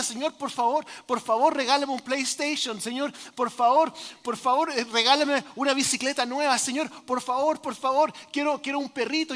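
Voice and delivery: put-on pleading loudly like a little boy, lightly done; mock shouted prayer. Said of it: "estaba gritando sus oraciones". (niño gritando su oración, suave imitación)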